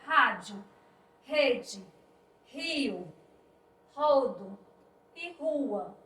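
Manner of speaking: rádio, rede, rio, rodo, rua, each starting with an aspirated H-like R; strong initial R. Shown as a demonstration. Teacher reading rádio, rede, rio, rodo, rua, strong R. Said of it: "A gente vai ler com mais intensidade".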